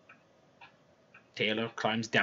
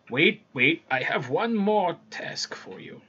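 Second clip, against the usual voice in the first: stalling king; 6 semitones higher, slower than usual. Acted. King stalls the returning tailor.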